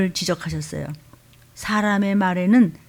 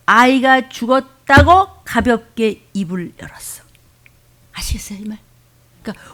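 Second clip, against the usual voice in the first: whisper. Real, not acted. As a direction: lean in and whisper. Preacher whispers for effect.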